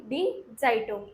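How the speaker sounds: "डी जाइटुंग" slowly, with आई; model pronunciation. Shown as a demonstration. Teacher answers how it is read, slow model pronunciation. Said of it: "क्या पढ़ेंगे?".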